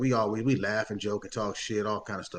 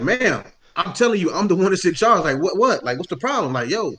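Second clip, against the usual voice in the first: exasperated manager; 7 semitones higher, 6 dB louder than usual. Retold or imitated.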